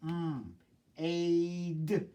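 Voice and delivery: "Mm", then "aid" drawn out to a separate final d; sounding out. Shown as a demonstration. Teacher tapping out the next syllable, sounds held apart. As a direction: hold "Mm", pause, stretch "aid". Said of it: "tap it out".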